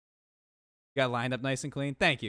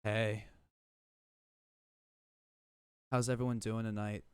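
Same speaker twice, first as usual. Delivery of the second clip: put-on soft, low e-boy voice; breathy-style e-boy voice; E-boy impression; 4 semitones lower, 4 dB quieter than usual. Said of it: "let me do the E-boy impression".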